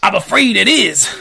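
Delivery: acted dread. A narrator's reading. Police chief confirms the dreadful news.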